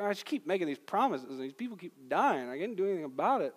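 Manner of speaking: hammed-up plaintive swoops in pitch; mock helpless complaint. Pastor voicing a powerless God, mock helpless complaint. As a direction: whinge as if powerless, half in jest.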